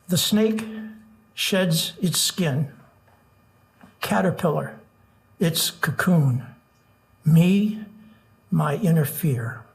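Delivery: slow measured poetry reading; nervous open mic poet. Acted. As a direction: read each line with long pauses. Reads his haiku aloud.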